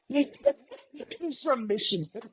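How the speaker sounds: high, drawn-out words through laughter; helpless laughing delivery; laughing hard. Real, not acted. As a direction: crack up while saying it. Cracking up at the discovery.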